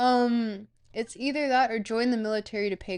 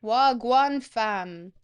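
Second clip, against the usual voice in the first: slow, drawn-out Canadian accent wagwan fam; Canadian accent, slowed and loud; 5 dB louder, much slower than usual. Shown as a demonstration. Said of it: "say it, like, in a Canadian accent".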